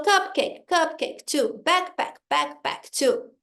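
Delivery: "cupcake" and "backpack" in two even beats; rhythmic drill, both halves of "backpack" weighted; counting word beats. Shown as a demonstration. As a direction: repeat "cupcake" on the beat, then count "two". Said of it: "fazendo os beats".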